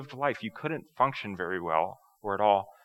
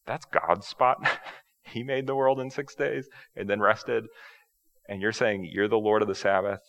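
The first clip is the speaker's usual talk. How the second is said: mock protest from disciples, pitched up; raised, lightly scandalized protest; incredulous objection; 2 semitones higher, 4 dB louder than usual. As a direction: object in mild disbelief. Disciples pull Jesus aside to object.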